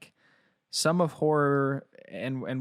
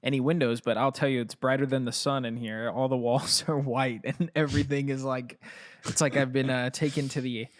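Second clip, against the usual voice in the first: hallway echo. Real, not acted. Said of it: "I'm in a scary dungeon".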